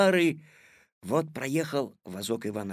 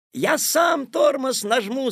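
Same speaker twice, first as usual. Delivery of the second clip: put-on high, loud, urgent boy's call; urgent exclamation; 10 semitones higher, 6 dB louder than usual. A narrator's reading. Petya to Tik-tak as everything spins, urgent. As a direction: shout over the turmoil, pitch up. Petya takes over in turmoil.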